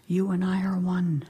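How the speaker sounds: low, whispery pronouncement; hushed divine voice. Acted. The voice answers the meditator, low hushed pronouncement. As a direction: breathe it solemnly as the voice of God.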